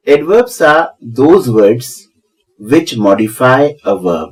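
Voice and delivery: very slow, each word spaced out; teacher dictating a definition slowly; slow dictation. Shown as a demonstration. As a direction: spell it out slowly for students to write down.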